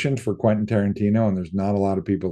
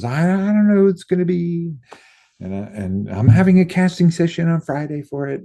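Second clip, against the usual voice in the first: higher mock Quentin voice, breezy; quoting Quentin in a higher, louder voice; imitating Quentin; 8 semitones higher, 4 dB louder than usual. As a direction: toss it off like the director. Quentin quoted to the speaker.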